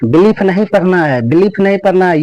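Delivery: बिलीफ rushed, ee kept short; short unstretched vowel in बिलीफ; hurried wrong reading. Shown as a demonstration. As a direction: say बिलीफ too hastily as the mistake. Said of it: "ये जल्दबाजी नहीं करना है".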